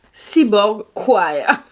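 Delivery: CHOIR very slowly with a hard k, "kwa-yer"; corrected CHOIR. Shown as a demonstration. Vlogger proving she learned the name, CHOIR slowly as "kwire". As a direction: draw CHOIR out as "kwaaa-yer". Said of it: "Donc voilà".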